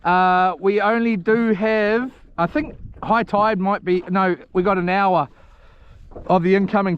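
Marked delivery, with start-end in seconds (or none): none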